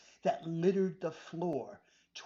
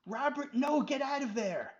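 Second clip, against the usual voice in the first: high, loud panicked cry; terrified cry; 8 semitones higher, 4 dB louder than usual. Acted. Adam begging Robert to flee, terrified cry. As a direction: cry out in terror. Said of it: "cried out in terror".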